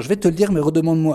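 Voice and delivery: a smile in the voice, imitating a coy reply; smiling tease. Mary hinting to Bernadette she will answer, smiling tease. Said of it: "en souriant, l'air de dire".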